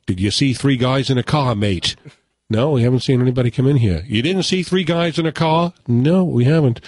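lightly put-on Australian movie dialogue; mock Australian accent. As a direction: play both sides with a hint of Australian.

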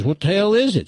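high-pitched, baffled yokel question; puzzled numbskull hillbilly, voice rising; dim hillbilly farm boy. Acted. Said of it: "numbskull farm boys".

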